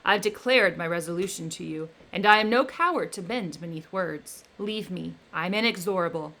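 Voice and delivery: loud, scornful command; angry defiance. Acted. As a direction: silence the devil with force. Victor defies the creature.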